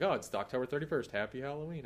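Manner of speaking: understated sarcastic well-wishing, rather soft. Retold or imitated. Preacher re-enacting his misunderstood Halloween joke, sarcastic. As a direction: say it as a dry, quiet joke. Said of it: "I said it like that".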